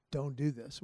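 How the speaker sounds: hushed plea from a retelling wife; soft begging. Retold or imitated. Wife begging husband not to fight, hushed plea. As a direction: beg him quietly not to go. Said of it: "And she's begging him".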